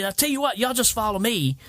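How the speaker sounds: imitating Ken. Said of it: "He said".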